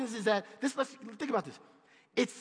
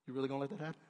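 low, soft, insinuating tempter; tempter's voice; 10 semitones lower, 13 dB quieter, much faster than usual. Retold or imitated. Satan sowing doubt in a weary worker, low and sly. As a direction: lower and quiet, slyly planting doubt. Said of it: "Somebody in Satan comes up".

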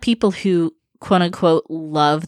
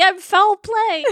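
slow spooky announcement; 10 semitones higher, slower than usual. Pretend. Claims cryptid name, slow.

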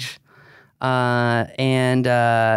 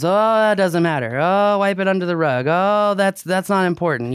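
dismissive mock voice; 5 semitones higher than usual. Mocking Facebook group admins.

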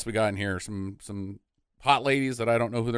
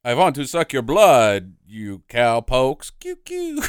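lightly hammed-up vampire cowpoke, drawn out; slow, louder mock-vampire threat with gun noises; vampire Western twist; 6 dB louder, slower than usual. Host pitches a Western-style intro, hammed-up vampire cowboy. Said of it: "if you'd done a Western twist on it".

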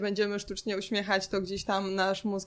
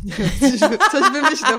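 laughing through the words; 4 semitones higher, 11 dB louder than usual. Real, not acted. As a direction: giggle while you say it. Laughing while speaking. (ze śmiechem)

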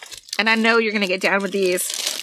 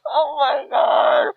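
slow laughing cry; much slower than usual. Real, not acted. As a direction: draw it out mid-laugh. Laughing fit.

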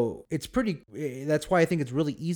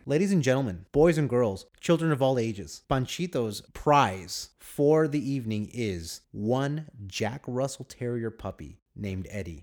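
ringmaster. Pretend. Announcing the prize like a showman.

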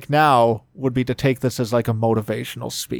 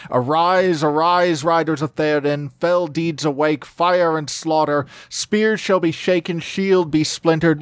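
ringing, higher rallying call; loud battle cry; 4 semitones higher than usual. Acted. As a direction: call the riders to war. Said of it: "he cried in a loud voice".

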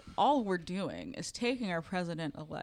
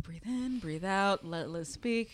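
calming self down; 5 dB quieter than usual. Real, not acted. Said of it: "I'm really angry".

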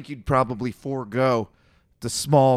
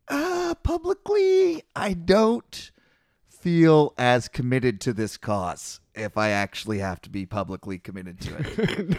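hammed-up squeak of someone suddenly losing nerve; nervous backpedaling; 2 semitones lower, slower than usual. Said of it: "All of a sudden they're like".

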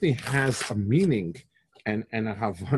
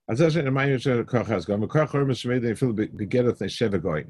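rapid text reading; much faster than usual. Acted. Reads Hebrew source rapidly.

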